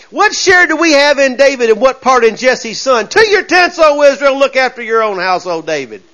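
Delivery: hammed-up defiant rallying cry, falling away at the end; lightly voiced southern rebel, rising to a shout; rebellious southern boys. Israel rebels answering the king, a mock southern rallying cry. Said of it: "sound like a bunch of southern boys".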